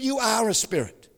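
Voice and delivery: whispered reveal. Real, not acted. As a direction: drop to a hushed whisper. Intimate sermon point.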